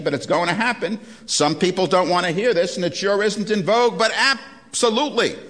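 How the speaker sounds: can't help laughing at the quote; laughing while quoting. Real, not acted. Lecturer reading the general's words, laughing in disbelief.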